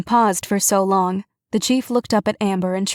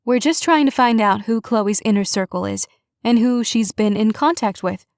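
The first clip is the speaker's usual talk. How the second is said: Cassie's voice; 2 semitones higher than usual. Acted. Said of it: "She said now in Cassie's voice".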